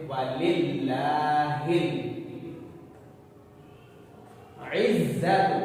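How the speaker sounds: इज्जतु with ain from the throat and a firm held ज़; throaty ain, hard doubled z. Shown as a demonstration. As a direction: press the doubled ज़ of इज्जतु firmly. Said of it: "आइन की आवाज हलक से अदा की जाएगी". (आइन हलक से, ज़ पर सख़्ती)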